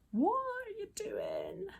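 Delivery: high, slow, whispered mock outrage; whispered mock "What are you doing?"; imitating the pile-on. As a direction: mimic the shocked online crowd. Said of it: "people who were like".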